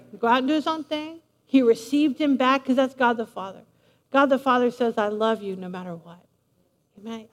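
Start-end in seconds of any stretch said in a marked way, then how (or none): 5.0-6.2 low, soft and loving; tender reassurance. Acted. God the Father reassuring his returning child, tender. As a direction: say it gently, dropped well down.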